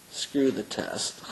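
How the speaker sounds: slow, deliberate push, words spaced out; emphatic urging. Retold or imitated. Telling the student to skip his test, slow and deliberate. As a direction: lean in and press each word. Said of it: "I got right up in his face and I said".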